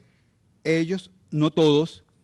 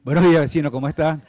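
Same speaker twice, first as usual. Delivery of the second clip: louder, firmer hello to the neighbor; forceful greeting; 6 dB louder, faster than usual. Retold or imitated. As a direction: greet with a confrontational edge. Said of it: "No, mentira". (saludo al vecino, más fuerte y firme)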